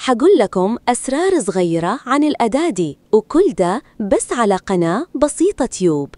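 Saudi Arabic dialect; Saudi accent. Shown as a demonstration. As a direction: speak it the Gulf Saudi way. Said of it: "وكتبت سعودية".

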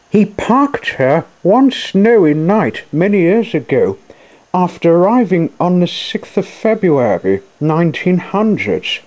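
very high-pitched character voice; Jenny's storytelling voice. A narrator's reading. Jenny explains Coco's past to the machines, high-voiced. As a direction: tell the tale in a high little voice.

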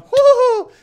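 high, loud laughing hoot; triumphant whoop. Real, not acted. Player who just got a kill, triumphant whoop.

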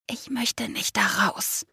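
soft, slow reluctance; slow, softened near-whisper. A narrator's reading. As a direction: say it small and hushed. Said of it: "flüsterte ich".

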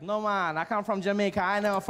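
lightly voiced indignant Jamaican guy; offended Jamaican. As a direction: push back like you've been mislabeled. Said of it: "Guy's like".

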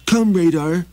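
high, pleading little traveler; high begging wanderer voice; Maxie voice. Acted. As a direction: raise the pitch and ask humbly. Maxie calls reindeer.

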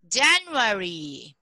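slow, careful January for the class to copy; model pronunciation. Shown as a demonstration. Teacher modelling January slowly for her class. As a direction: spell out January slowly for students. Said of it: "Repeat after me".

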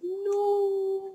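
gamer's frustrated outburst; angry no. Real, not acted. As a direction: blurt it out in frustration. Rage at the game.

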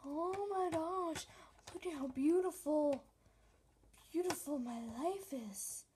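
gushing vlogger parody; mocking vlogger. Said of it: "'Cause you're just like".

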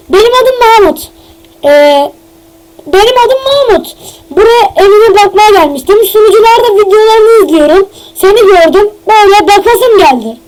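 a hint of a fake visitor introducing himself; put-on Mahmut voice.

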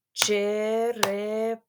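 Черепаха drawn out slowly as че-ре-па-ха; slow syllable demo. Shown as a demonstration. Teacher checks the syllables of Черепаха with the class. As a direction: say Черепаха slowly, one clap per syllable. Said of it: "давайте перевіримо".

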